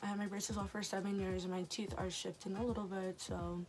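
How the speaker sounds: talking with retainers in; slightly muffled by a retainer; wearing a retainer. Real, not acted. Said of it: "I have my retainers in".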